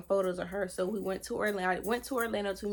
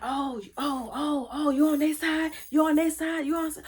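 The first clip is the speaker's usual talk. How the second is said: high, imitated outrage, getting louder; accusing outburst; 6 semitones higher, 4 dB louder than usual. Zoe accusing her of taking their side, indignant. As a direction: act out his shocked accusation, building as you go.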